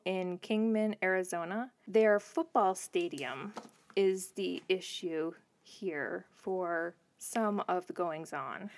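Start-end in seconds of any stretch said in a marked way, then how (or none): 1.9-8.7 slow, measured news anchor read. Real, not acted. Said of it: "You sound like a news anchor".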